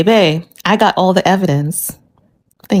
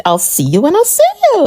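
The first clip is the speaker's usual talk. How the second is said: mocking farewell; 10 semitones higher than usual. Husband dismissing her, high mock.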